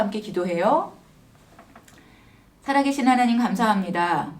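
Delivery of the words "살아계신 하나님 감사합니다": measured prayer with long pauses between phrases; simple, unhurried spoken prayer; leading prayer. Real, not acted. Leads a closing prayer.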